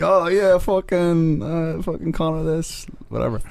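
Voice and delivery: high mocking voice, drawn out; lifted mock fanboy voice. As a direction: mimic a starstruck McGregor fan. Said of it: "So he's like".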